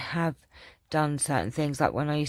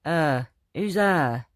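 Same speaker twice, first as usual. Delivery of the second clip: put-on Yorkshire accent; slower than usual. Mum imitating daughter refusing in Yorkshire accent. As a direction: drop the letters like a Yorkshire kid. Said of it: "And she'd go".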